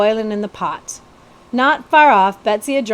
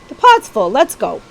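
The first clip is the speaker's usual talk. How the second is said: calling out; 5 dB louder than usual. Acted. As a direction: call it out brightly. Character calls out.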